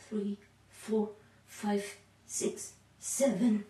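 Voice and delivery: breathless counting during exercise; out of breath. Real, not acted. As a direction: count while short of breath. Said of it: "I'm already a little bit out of breath".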